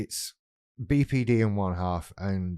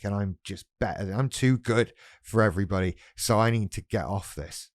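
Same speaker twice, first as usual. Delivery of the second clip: whiny vulnerable voice. Acted. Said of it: "the vulnerable comes back with".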